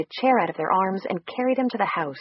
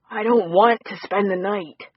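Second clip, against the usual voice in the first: gruff voice; 2 semitones higher, 3 dB louder than usual. Acted. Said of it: "his voice still gruff".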